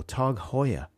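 "Tag Heuer" with long ah and HOY-er; target pronunciation. Shown as a demonstration. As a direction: rhyme Heuer with Sawyer in "Tag Heuer". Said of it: "that's what you're going for".

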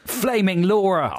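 high, drawn-out echo of the manager; hammed-up exclamation, slow and high; mock exasperated shout. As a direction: stretch it out in mock outrage. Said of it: "also used to shout".

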